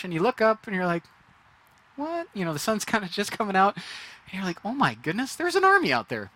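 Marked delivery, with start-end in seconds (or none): 2.0-2.3 sudden high startled yelp; startled what. Pretend. Waking to an enemy army. 4.6-6.3 rising high alarmed cry; panicked alarm. Pretend. Servant sees the army.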